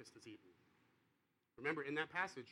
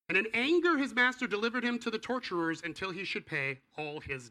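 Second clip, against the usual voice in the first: much higher, louder proclamation; dramatic scripture reading; 6 semitones higher, 7 dB louder than usual. Real, not acted. Preacher rereading the scariest passage to the congregation, thundering. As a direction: read it as a fearful warning. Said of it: "scariest passage in the entire Bible".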